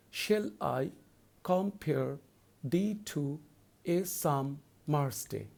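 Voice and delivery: slow, with a pause between each foot; "Shall I", "compare", "thee to", "a summer's day" as separate slow chunks; scanning by feet. Shown as a demonstration. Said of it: "repeat it again for your own convenience".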